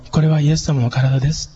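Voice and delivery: gentle. Shown as a demonstration. Pastor wishing to speak tenderly at communion, gently. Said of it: "言いたいっていう心がありながらも".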